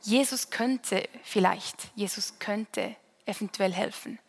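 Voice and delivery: near-whisper of lost hope; doubting. Shown as a demonstration. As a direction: fade into doubt. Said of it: "wir wechseln von".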